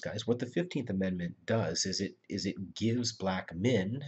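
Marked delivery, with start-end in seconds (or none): 2.7-4.0 slow down and lean on "men"; single out "men" with a slow, deliberate stress; emphasis on MEN. Real, not acted. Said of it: "emphasis on the word man".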